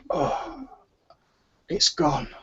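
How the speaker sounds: weak slurred words. Acted. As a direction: slur it out, barely holding on. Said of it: "a slurred voice from the woman on the table".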